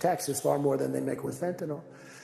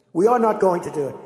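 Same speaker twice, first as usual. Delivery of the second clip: firm refusal; 4 semitones higher, 9 dB louder than usual. Retold or imitated. Acted quarrel, Macron refusing.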